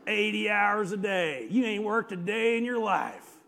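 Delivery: put-on scornful one-upper voice; one-upping guy. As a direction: imitate a boaster dismissing someone's hard work. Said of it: "here comes that guy".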